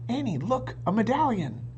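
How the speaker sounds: shouted. A narrator's reading. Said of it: "shouted Jack".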